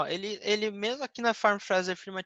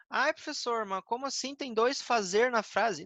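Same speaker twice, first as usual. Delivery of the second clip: lightly voiced puzzled student, pitched higher; confused student; 5 semitones higher than usual. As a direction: protest to the teacher like a baffled pupil.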